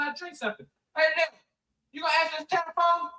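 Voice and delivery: put-on slurred, rambling drunk dad yelling at his wife; drunk father. Drunk father ranting at wife Lil about the phone, slurring.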